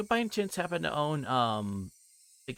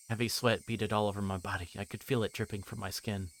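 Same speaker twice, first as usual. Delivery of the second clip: story narration; 4 semitones lower than usual. A narrator's reading. Back to reading narration.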